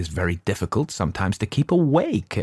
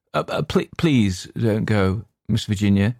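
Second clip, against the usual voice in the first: pleading cry. Acted. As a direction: beg her to stay, stammering. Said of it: "he cried".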